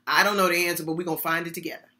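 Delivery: soft, quiet reassuring reply; calm them: we'll find it together; gentle reassurance. Shown as a demonstration. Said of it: "That is the best reply".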